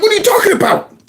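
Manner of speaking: mock outrage, high; disbelief. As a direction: sound stunned at the question. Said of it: "I'm like".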